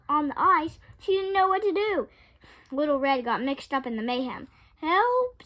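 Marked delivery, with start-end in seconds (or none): 4.8-5.4 high, loud cry; cry for help. A narrator's reading. Little Red caught in the mayhem cries loudly for help. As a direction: call out for rescue. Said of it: "she cried".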